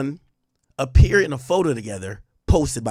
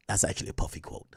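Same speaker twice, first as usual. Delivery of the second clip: laughing; 12 semitones lower, 12 dB quieter, faster than usual. Real, not acted. Laughing at the quote.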